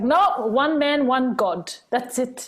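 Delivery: mock-stern grandmother decree; firm nonna. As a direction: lay down the law like a devout grandmother. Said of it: "she's like".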